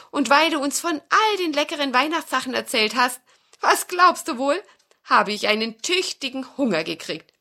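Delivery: put-on rising kid's excitement; hungry excited child. Peter tells nutcracker he is hungry, excited boy.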